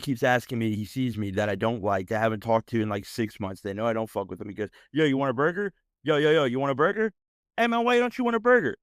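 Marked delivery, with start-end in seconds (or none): 4.9-8.8 pushy, rising mock voice that climbs high; hammed-up taunting buddy. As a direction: needle him like an annoying guy. Mocking the burger guy.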